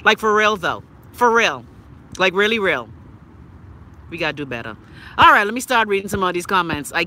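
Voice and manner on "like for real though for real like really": signature catchphrase voice. Acted. Host mocking eight billion in debt, in signature catchphrase voice. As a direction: swoop way up on each "really". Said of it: "in my Chrissy Love voice".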